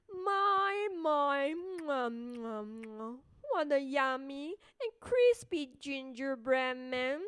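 loud, savouring, sly fox; satisfied fox voice. Acted. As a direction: relish every word.

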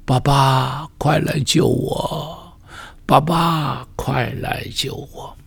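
slow, fading into a weeping whisper; a lost boy sobbing for his father under the stars; crying plea. Pretend. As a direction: cry softly for father to come. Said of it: "哭着说".

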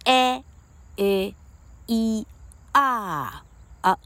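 "A A E R啊" as isolated short vowels, each held level, first one high; short vowel drill. Shown as a demonstration. Teacher modelling stressed-syllable vowels, short vowel drill. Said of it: "A E I O U分别念".

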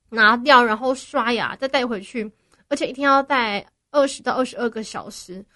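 talking through dental aligners; slightly lisped aligner speech; with braces. Real, not acted. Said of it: "戴牙套讲话有点不顺".

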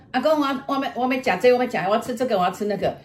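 a hint of a child begging for food; small child. Child asking grandpa for food, lightly voiced small child. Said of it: "你就说".

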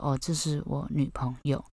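hushed, nervous introduction; very quietly. Retold or imitated. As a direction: say it under your breath to the other girl. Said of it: "讲话就像现在这样子，非常小声".

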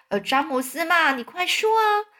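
high, wheedling ladybug; patient coaxing. A narrator's reading. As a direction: coax him along, rising high at the end. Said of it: "瓢虫耐心地哄着他".

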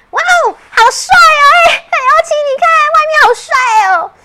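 high, loud, thrilled squeal; excited. Acted. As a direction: rush it out, delighted. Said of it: "吉赛亚兴奋地跳上窗户".

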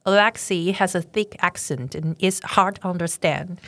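slow careful repeat of "Alexei has a thick accent"; student repeating slowly. Shown as a demonstration. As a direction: echo the teacher slowly. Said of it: "我们就可以说".

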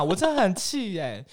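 a touch of real annoyance; still fuming. Real, not acted. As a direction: state how angry you are with heat.

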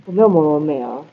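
muffled behind a mask; talking through a mask with a cold; through a face mask. Real, not acted. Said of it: "他是戴着口罩录音".

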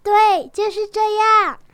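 bright, eager little rabbit realizing; excited child voice. Acted. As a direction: voice the bunny's eureka moment. Dongdong's thought voiced aloud.

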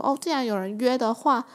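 breezy, carefree shrug, pitch rising high; an easygoing yes, ending high; easily persuaded. Retold or imitated. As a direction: toss it off like it's nothing. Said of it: "超容易说服的".

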